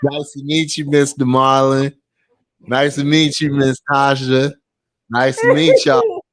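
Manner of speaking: eager greeting, building to a laugh; hammed-up polite hello; imitating the short boyfriend. Short boyfriend meeting the parents, eager and laughing.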